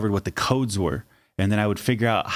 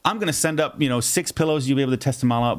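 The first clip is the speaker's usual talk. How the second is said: much higher, syrupy customer-service voice; overly sweet concierge; 10 semitones higher than usual. Retold or imitated. Hotel complaint line to a guest, sugary high clerk voice. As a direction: gush apologies like an eager-to-please hotel clerk. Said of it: "Instead, I was like".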